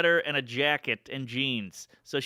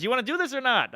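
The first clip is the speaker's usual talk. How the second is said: retold impatience; 9 semitones higher, 3 dB louder than usual. Woman snaps back at teen.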